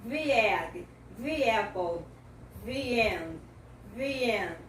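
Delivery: 'The egg, the apple, the end' with 'the' as 'thee'; 'thee' before vowels. Shown as a demonstration. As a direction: link an ee-sounding 'the' into 'egg', 'apple', 'end'. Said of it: "trazer pro som do I".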